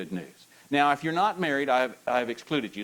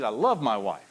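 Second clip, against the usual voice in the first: eager, heartfelt husband; more enthusiasm; 4 dB louder than usual. Shown as a demonstration. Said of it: "A little more enthusiasm".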